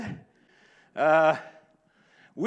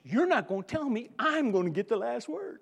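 dog's sassy voice; 3 semitones higher than usual. Retold or imitated. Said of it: "that last little, like".

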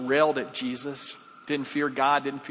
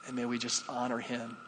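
real prayer, measured with long pauses; closing prayer. Real, not acted. Pastor thanks God for communion and the thief's welcome, praying.

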